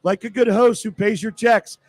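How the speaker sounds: live radio commercial; radio ad read. Acted. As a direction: clear ad read, phone number spelt out. Host reads the sponsor ad.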